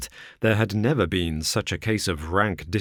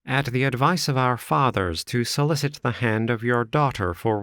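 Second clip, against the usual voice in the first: put-on higher, confident young suitor; Stangerson's voice; 3 semitones higher than usual. Suitor to Ferrier, a higher smug voice. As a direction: lay out the claim smugly.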